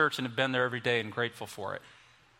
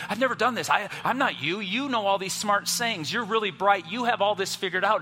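imagined nervous Peter; 5 semitones higher, 3 dB louder than usual. Retold or imitated. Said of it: "he would have said".

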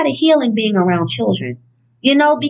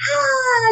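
mock ride scream; 13 semitones higher than usual. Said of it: "just screaming and shit like that".

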